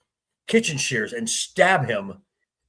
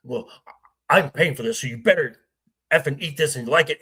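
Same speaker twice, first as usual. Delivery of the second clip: mock angry rant; faster than usual. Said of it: "he's getting so upset".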